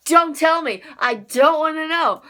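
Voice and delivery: pleading loudly. Real, not acted. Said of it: "people have read the manga".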